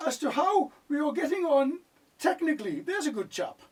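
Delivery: put-on posh English accent. Asking the camera crew how it's going, in mock-posh English. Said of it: "I thought you were a Geordie".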